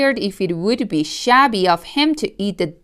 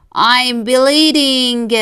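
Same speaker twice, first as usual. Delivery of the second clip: yelped; 4 semitones higher, 3 dB louder, much slower than usual. Acted. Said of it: "the fox yelped".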